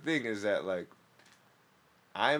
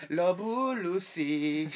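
drawn-out laughing; 10 semitones higher, 6 dB louder, much slower than usual. Pretend. Mock stage line, laughing.

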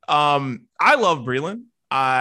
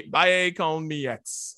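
Spanish accent; much slower than usual. Shown as a demonstration. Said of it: "That's my Spanish accent right there".

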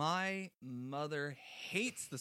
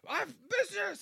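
much higher, clipped business declaration; mock businesswoman; 4 dB louder than usual. Mocking Chrissy's business talk to co-host, high squeak. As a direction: squeak out the word like a proud executive. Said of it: "when you were like".

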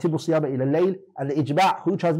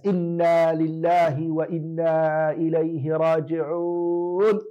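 slow, drawn-out dismay; dismayed realization; 3 semitones higher, much slower than usual. Acted. Teacher acting out the man who ate past Fajr, slow and lightly dismayed. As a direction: let it dawn on him slowly, a touch of mock dismay. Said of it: "And then he realizes".

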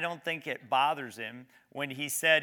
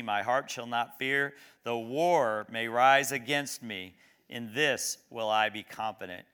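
scripture reading. Acted. Preacher reading a psalm to the congregation, measured. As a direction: read the psalm with weight and calm.

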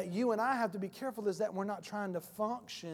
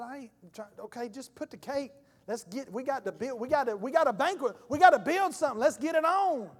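building to a shout; 3 semitones higher, 3 dB louder than usual. Retold or imitated. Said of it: "I said".

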